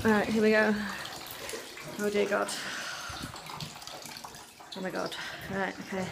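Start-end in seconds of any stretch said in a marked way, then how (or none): 2.0-6.1 scared. Real, not acted. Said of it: "I'm really scared".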